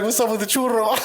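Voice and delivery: imitating girlfriend. Imitating Bellina's question.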